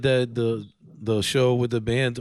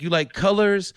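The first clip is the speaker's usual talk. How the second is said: lightly put-on, higher-pitched kids' entertainer; a hint of cheery Disney host, pitched up for children; 8 semitones higher than usual. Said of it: "put my Disney voice on".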